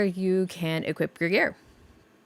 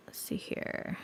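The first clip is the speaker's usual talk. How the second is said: whispering; 14 dB quieter, slower than usual. Real, not acted. Mutters to self while browsing menus.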